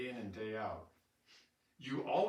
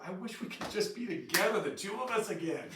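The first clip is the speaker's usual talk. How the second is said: mock mourning; 8 semitones higher, 5 dB louder than usual. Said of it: "I would go through a mourning process of".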